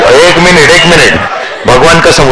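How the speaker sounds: high-pitched laughing plea to wait; cracking up, pitch jumping high. Real, not acted. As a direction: talk through real laughter. Cracking up while starting a teasing story.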